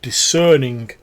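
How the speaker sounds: high, loud, wheedling sales pitch; oil up the customer; pushy little merchant voice; fawning goblin salesman. Acted. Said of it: "He says".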